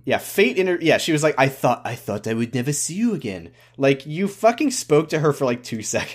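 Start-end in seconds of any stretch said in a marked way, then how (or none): 1.4-3.5 lightly put-on French accent. Shop woman reunited with Anne, in a French accent. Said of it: "I can do this accent".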